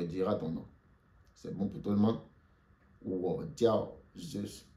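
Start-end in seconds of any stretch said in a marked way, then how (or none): 3.0-4.7 very slow and clear; slow model phrase. Shown as a demonstration. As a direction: model it slowly for the class. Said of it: "Répétez après moi". (très lentement, pour la classe)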